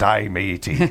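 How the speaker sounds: lightly voiced pirate; a hint of pirate. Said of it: "fun accents to make".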